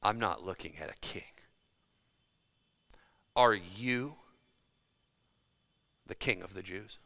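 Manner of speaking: quiet disbelief, long pause before the soft title. Acted. Pilate sizing up Jesus of Nazareth, quiet disbelief. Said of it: "and with disbelief".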